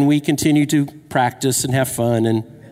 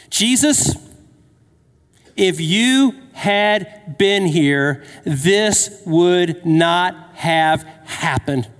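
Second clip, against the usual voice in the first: mad sisters; much slower than usual. Retold or imitated. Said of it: "They're mad".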